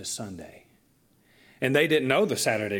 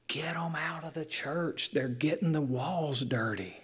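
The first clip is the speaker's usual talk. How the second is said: raised pitch, hushed mock outrage; upset church ladies; 4 semitones higher, 3 dB quieter than usual. Older ladies objecting to kids touching the walls, mock upset. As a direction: imitate scandalized older ladies, half under the breath. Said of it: "it just upset these women".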